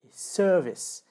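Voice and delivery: service said slowly, stressed on SER; drawn-out English service. Shown as a demonstration. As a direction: stress the first syllable of service. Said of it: "une différence de prononciation".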